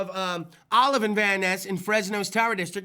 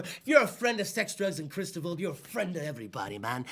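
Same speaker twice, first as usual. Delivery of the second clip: much lower, quieter cool-guy voice; put-on deep voice; 6 semitones lower, 6 dB quieter than usual. Host plugging barbecue sponsor in a much lower put-on voice. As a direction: drop way down into a smooth low voice. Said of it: "What is that voice I'm doing".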